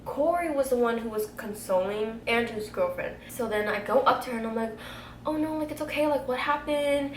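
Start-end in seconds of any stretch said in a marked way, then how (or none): 5.2-7.1 lightly cooing, higher-pitched reassurance; gently concerned, pitched up; retold comforting. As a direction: soothe an upset friend in a high voice. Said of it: "trying to calm her down".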